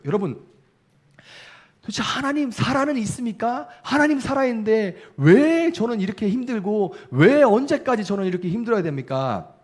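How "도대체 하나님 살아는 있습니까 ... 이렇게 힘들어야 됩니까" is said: high, louder anguished protest; confronting God. Retold or imitated. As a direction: argue with God, pleading and demanding, voice pitched up. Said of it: "이렇게 따지는 게".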